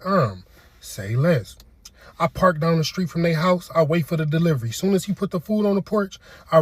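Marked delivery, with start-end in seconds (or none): 0.0-1.5 slow say less. Acted. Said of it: "catchphrase said slowly".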